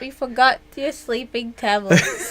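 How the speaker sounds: laughing. Retold or imitated. Quoting a funny meme.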